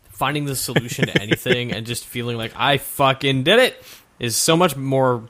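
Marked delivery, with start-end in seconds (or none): 2.6-3.8 slow, slurred-sounding victory line. Real, not acted. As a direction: savor it like a tipsy winner. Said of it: "Do you always sound like a drunk".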